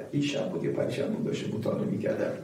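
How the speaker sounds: quick hushed whisper; whispered aside. Real, not acted. Preacher telling congregation of his reading, whispered. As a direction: murmur it as a private note. Soft aside while recalling.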